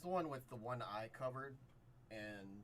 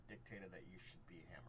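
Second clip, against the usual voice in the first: whispering; 4 semitones lower, 7 dB quieter than usual. Acted. GM aside after verdict.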